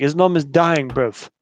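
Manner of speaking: lightly imitated London British accent; a quick mock British accent quoting the film. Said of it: "It's, like, super British accent".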